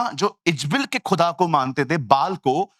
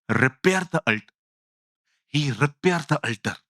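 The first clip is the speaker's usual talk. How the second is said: slow, lower, stressing repaired; slow emphatic reading; 4 semitones lower, much slower than usual. Shown as a demonstration. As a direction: read slowly, lean on repaired. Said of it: "अब आराम से पढ़िए". (धीरे, repaired पर ज़ोर)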